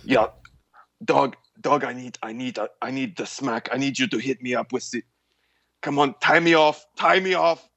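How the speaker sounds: put-on lightly German-accented desperate junkie; a hint of a German accent, pleading; German meth head. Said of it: "if you ever play a German meth head".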